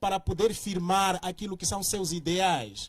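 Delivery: loud, forceful debating delivery. Real, not acted. Debater rebutting a companion's claim about prophets, loudly. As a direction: speak up forcefully, almost shouting the argument. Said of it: "desculpa, eu falo a gritar".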